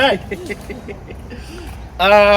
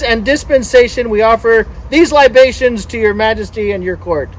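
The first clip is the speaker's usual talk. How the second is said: formal offering read out to a crowd; ceremonial reading; 3 semitones higher than usual. Pretend. Boat owner offering libations to the sea god, ceremonial reading. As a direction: recite it as a mock-solemn offering.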